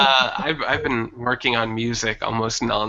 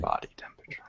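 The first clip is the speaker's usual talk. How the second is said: whisper; 15 dB quieter, faster than usual. Pretend. Whispering along in the joke.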